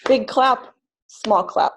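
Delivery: Big stressed, small said lightly; big then small clap. Shown as a demonstration. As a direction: hit Big hard, let small clap fall away. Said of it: "the way I clap column one is like this".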